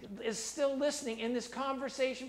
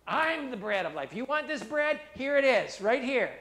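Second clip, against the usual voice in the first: louder, proclaiming as Jesus; bold declaration; 6 dB louder than usual. Acted. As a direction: call it out boldly to the crowd. Preacher voicing Jesus, bold take.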